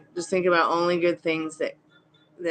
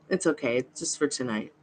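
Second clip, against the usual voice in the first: gently, a little softer, settling her down; soft reassurance; 3 semitones lower, 5 dB quieter than usual. Real, not acted. Streamer soothing a worried viewer, soft and reassuring. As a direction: ease her worry softly.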